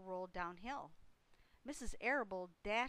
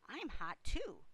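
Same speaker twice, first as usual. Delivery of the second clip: higher, louder complaint; Avery's cry; 5 semitones higher, 8 dB louder, slower than usual. A narrator's reading. Boy wanting water too, high loud cry. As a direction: call it out insistently. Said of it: "cried Avery".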